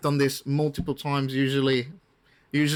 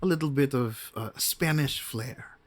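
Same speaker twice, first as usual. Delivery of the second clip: H with Spanish flair; 4 dB quieter than usual. Shown as a demonstration. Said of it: "H sort of talks like this".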